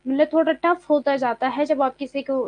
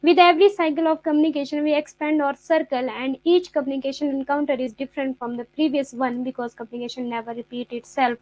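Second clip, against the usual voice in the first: slow, deliberate reading of a definition; slow textbook reading; much slower than usual. Acted. Teacher slowly reads the definition to her students. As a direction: read every word out slowly, like dictation.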